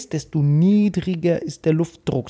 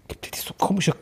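whisper; 6 dB quieter than usual. Real, not acted. Unvoiced whispered aside.

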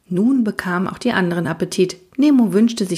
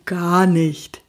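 calm reply. Acted. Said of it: "entgegnete Magic gelassen".

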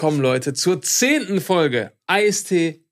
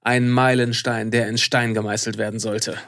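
arrogant; 6 semitones lower than usual. Acted. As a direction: declare Meilenstein solemnly and low. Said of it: "es wird nicht mehr arroganter".

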